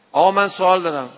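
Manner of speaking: loud call for attention. Retold or imitated. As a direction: shout to stop him leaving. Young man calls out to cleric.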